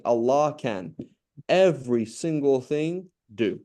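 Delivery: slow, weighty stress on "every single thing"; "every single thing" stretched out for emphasis; emphatic. Shown as a demonstration. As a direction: lean hard on "every single thing", slowly. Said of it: "so that's emphatic".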